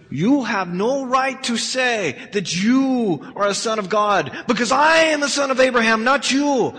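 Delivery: put-on Jewish accent. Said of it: "you like my Jewish accent".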